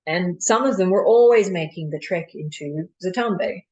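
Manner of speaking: performed dramatic monologue with measured pauses; Doctor de Koven. Acted. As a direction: argue the case to a listener, pausing between points. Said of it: "performing a monologue of Doctor de Koven".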